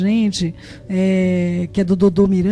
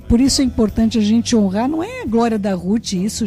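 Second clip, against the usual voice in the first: ordinary talk, nothing marked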